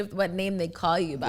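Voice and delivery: ordinary delivery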